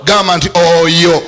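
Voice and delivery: slow emphatic repeat. Acted. Preacher repeating declaration.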